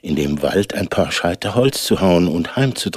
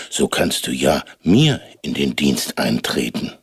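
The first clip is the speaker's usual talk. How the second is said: giant voice; 7 semitones lower than usual. A narrator's reading.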